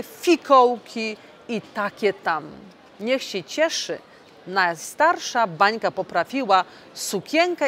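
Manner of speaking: lively read-aloud fairy tale voice; storytelling for children. A narrator's reading. MEP reading a Christmas tale to children, animated storytelling. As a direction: read the tale to the little ones.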